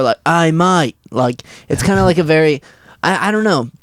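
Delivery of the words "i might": Australian accent greeting; lower Australian voice. Shown as a demonstration. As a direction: say it with Australian vowels. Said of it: "It's slightly lower".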